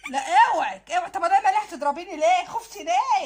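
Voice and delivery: loud, quick cry of "اوعك" to fend her off; startled defense. Acted. Man fending off the furious wife, loud and quick. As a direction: back off fast from her swing.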